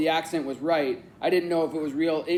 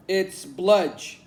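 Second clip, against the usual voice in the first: higher, louder fake British accent; badly faked British, pitched up; terrible British accent; 4 semitones higher, 5 dB louder than usual. A narrator's reading. Naming a made-up province to Leo, terrible British accent. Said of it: "I said in my terrible accent".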